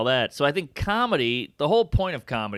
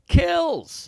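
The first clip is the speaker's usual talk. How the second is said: much higher, bursting with pride on Kills; proud exclamation. Real, not acted. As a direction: throw out Kills. like a boast. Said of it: "I have a joke in my act".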